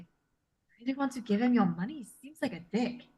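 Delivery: put-on soft, confidential French-accented aside; whispered aside. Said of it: "I'm gonna whisper to Callista".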